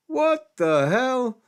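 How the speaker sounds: high, slow stunned what the hell; disbelief. Retold or imitated. Catching himself doing the whisper method, stunned. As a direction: gasp it out in disbelief. Reacting to own whisper attempt.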